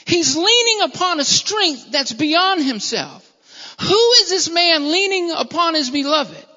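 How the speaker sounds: high, emphatic preacher's wonder; amazement. Acted. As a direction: marvel loudly, stretching the key words. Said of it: "a wonder and an amazement".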